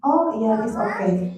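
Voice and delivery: put-on a mother calmly telling her child it's okay; reassuring. Shown as a demonstration. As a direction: let the child feel safe, gently. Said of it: "Tumpah airnya, Mi".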